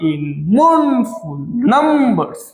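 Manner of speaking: very slow, syllable by syllable; drawn-out scansion. Shown as a demonstration. Teacher marking stress signs on a verse, very slowly drawn out. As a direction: stretch each syllable of the verse as you mark it. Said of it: "stress sign, আনস্ট্রেস sign দিতে হবে".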